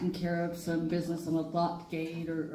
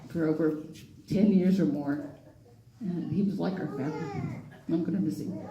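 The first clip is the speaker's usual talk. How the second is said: tearful. Real, not acted.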